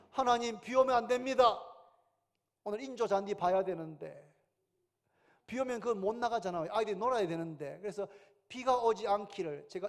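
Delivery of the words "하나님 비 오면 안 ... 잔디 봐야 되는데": urgent raised plea to God; begging heaven not to let it rain; inner plea. Retold or imitated. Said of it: "제 마음속에". (하나님께 비 오지 말라고 다급하게 외치는 기도)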